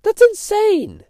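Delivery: high, loud and slow in outrage; fired up. Real, not acted. Podcaster railing against lines on maps, high slow outcry. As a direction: stretch it out, fired up and indignant. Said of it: "I get so fired up about this".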